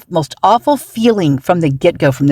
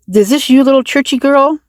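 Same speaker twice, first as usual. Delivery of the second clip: mocking; 9 semitones higher than usual. Real, not acted. Mocking question to the poster.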